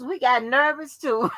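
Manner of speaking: bursts into high laughter; laughing. Real, not acted. Remembering Tanya's nervousness, she laughs out loud.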